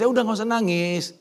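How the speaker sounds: high, loud look-at-me boasting; loud smug demand; arrogant showing off. Pretend. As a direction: call out proudly to the crowd. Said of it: "sombongnya saya kali gitu".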